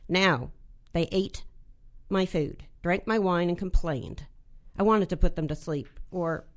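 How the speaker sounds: a measured, deadpan read of her own short story. Acted. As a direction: read it like an author at a reading, dry and wry. Reads her short story aloud.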